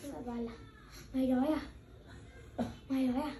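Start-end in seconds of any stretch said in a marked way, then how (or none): 1.1-3.3 nasty tone. Retold or imitated. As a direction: copy mum's rude snappy voice. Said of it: "giọng gớm gớm".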